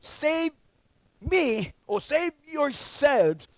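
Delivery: the thief on the cross mocking Jesus, slow and taunting; mocking criminal. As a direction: draw it out like a jeering thief. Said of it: "hurled insults at Jesus".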